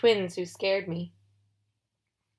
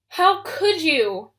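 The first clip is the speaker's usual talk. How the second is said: higher, louder and slow, seething; very angry; 7 semitones higher, 6 dB louder, much slower than usual. A narrator's reading. Annabeth confronts Luke about Talia's tree, furious. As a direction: drag out each word in fury. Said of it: "Annabeth sounded so angry I thought she'd explode".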